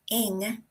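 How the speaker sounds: ING with the final ng fully sounded; careful, complete ING; full ING ending. Shown as a demonstration. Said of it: "dropping the ends of words".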